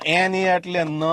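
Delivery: slow spelling-out, ન held long; spelling out syllables. Shown as a demonstration. Teacher sounding out school spelling, slow drawn ન. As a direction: spell it slowly and stretch ન. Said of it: "અંગ્રેજીમાં શું શીખવાડ્યું હોય?".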